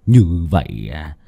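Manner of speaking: chậm rãi, kéo dài, cao dần cuối câu; nói chậm, hả hê; đắc ý gian ác. Acted. (cụ Lý hả hê về mưu thủ tiêu xác)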